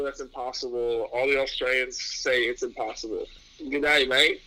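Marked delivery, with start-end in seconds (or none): 3.6-4.4 attempted Australian accent, a bit louder. Shown as a demonstration. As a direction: have a go at an Aussie accent. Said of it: "give us your best accent".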